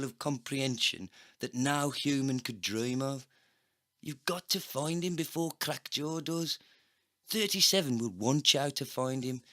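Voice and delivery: high, urgent hard man voice; excited cyborg agent. Acted. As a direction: sell the big idea eagerly. McGann pleading excitedly.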